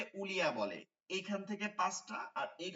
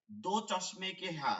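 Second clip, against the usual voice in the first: Urdu saying; 2 semitones higher, slower than usual. Shown as a demonstration. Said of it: "উর্দুতে যে একটা কথা বলে".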